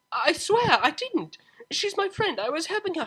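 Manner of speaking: frantic denial to mother; desperate plea. Acted. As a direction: beg to be believed. Pleading with mother.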